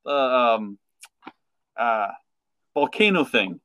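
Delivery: mock frantic fish; high panicked voice.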